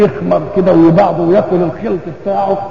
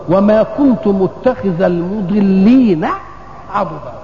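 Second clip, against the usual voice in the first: very slow, drawn-out Qur'an quotation; verse recitation; much slower than usual. Real, not acted. Preacher reciting scripture about those who mislead, slow measured recitation. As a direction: stretch each word of the verse deliberately.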